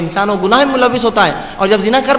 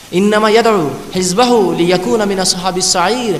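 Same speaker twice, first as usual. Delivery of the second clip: slow, measured Arabic chant; تلاوت کا انداز; Quran recitation; slower than usual. Acted. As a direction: recite the verse with reverent care. Verse recited again.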